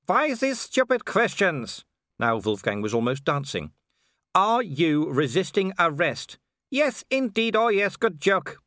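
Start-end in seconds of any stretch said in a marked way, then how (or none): 0.1-1.8 slow, very high, exasperated villain; impatient werewolf villain. Acted. Werewolf fed up with the watchman's questions, high and impatient. 4.3-6.4 slow, higher, word-by-word question; deliberate repetition. Acted. Watchman formally asking the villain about resisting arrest, slow and deliberate. 6.7-8.6 very high, gleeful mockery; mocking werewolf villain. Werewolf treating the arrest as a joke, high and mocking.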